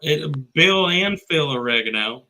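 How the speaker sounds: clarify it like a Texan local; mock Texan twang; Texan accent. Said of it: "we just both do Texan".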